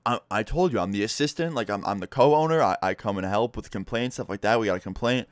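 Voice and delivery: imitating a flustered man tripping over first words; mock stammer, hurrying to justify himself; nervous stuttering. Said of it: "why are you stuttering so much?".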